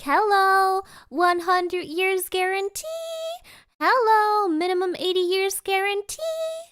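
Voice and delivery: high, sing-out vendor's call; hammed-up tourist-spot sales cry; imitated street seller. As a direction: hawk it to tourists, stretching word ends. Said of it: "these sellers often hang out at tourist spots".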